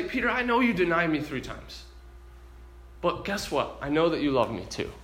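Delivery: soft, gentle reassurance; loving. Retold or imitated. Jesus giving Peter another chance, gently loving. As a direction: speak tenderly, lowering toward the end. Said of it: "Jesus here lovingly".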